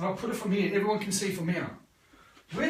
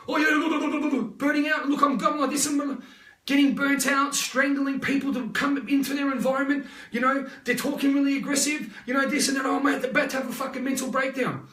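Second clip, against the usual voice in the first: frantic rush; 3 semitones higher than usual. Retold or imitated. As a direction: rattle it off like a burnt-out client spiralling. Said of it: "they're going like that really quick".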